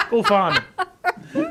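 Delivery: put-on high, playful shout to the kids; playful call. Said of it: "I'll be like".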